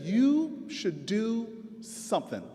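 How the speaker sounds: slow, solemn mock-sage pronouncement; sage wisdom. Neighbor hands the councilman the wisdom of the ages, slow and solemn. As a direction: deliver it slowly like ancient wisdom. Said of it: "as if she was gonna give me the wisdom of the ages".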